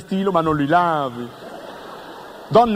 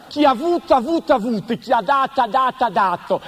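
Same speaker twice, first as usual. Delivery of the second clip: mock stutter; 4 semitones higher than usual. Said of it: "proverbio per balbuzienti".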